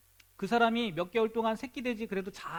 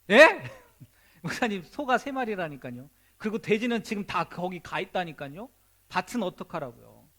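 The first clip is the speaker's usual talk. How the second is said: incredulous objection; 5 dB louder than usual. Acted. Believer objects again, incredulous.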